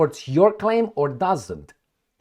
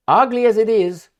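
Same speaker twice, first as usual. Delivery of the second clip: forceful quote; 10 semitones higher, 9 dB louder than usual. Retold or imitated. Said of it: "And I'm quoting Fico".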